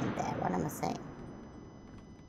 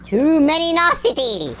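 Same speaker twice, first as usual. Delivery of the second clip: mock exclamation; 9 semitones higher, 5 dB louder than usual. Gamer playing with a made-up word, mock exclamation. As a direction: proclaim the silly word at full voice.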